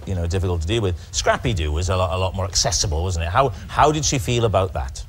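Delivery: David Frost impression. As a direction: probe gently like a TV interviewer. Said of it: "I'm doing David Frost".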